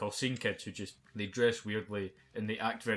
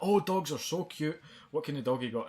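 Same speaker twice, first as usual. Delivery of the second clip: mocking gushing woman; 6 semitones higher, 5 dB louder than usual. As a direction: gush over dogs like an overeager guest. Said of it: "And she went".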